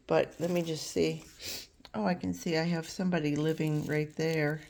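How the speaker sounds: stuffy head-cold voice, nose sniffling. Real, not acted. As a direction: talk through a cold with sniffles. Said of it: "I'm sorry about the sniffling. I have a cold".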